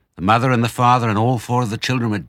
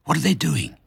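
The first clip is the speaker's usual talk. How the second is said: put-on scared child voice; 9 semitones higher than usual. A narrator's reading. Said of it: "cried the small foxes".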